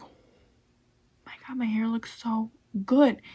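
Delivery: breathy whispered oh my God; whispered delight. Retold or imitated. Vlogger recalls first use, whispering delight. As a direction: whisper it like a happy secret.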